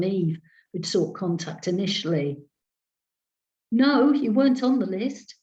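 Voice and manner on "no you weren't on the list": said aloud. A narrator's reading. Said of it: "she said aloud".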